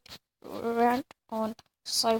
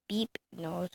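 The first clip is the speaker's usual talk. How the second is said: breathy whispered aside; 6 dB quieter than usual. Real, not acted. Vlogger whispers a mocking insult while watching. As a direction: drop to a secret whisper.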